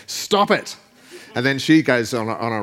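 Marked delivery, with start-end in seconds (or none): 0.1-0.8 high mock shout retold. Pastor retelling the therapist's yell, mock shout. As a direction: shout it across the desk, imitating. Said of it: "he's just shouting across the desk".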